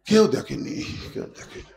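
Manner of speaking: hushed, fading to a whisper; furtive aside. Acted. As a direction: say it secretly, trailing into breath. Man furtively sure nobody saw. (চুপিচুপি, ফিসফিস করে)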